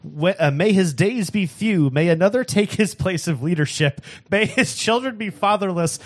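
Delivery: rising impassioned oratory; preacher voice. Acted. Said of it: "that is your preacher voice".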